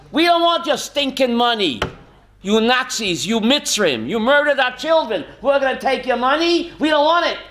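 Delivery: acted indignation, climbing in pitch; indignant refusal. Voicing Jews refusing blood money.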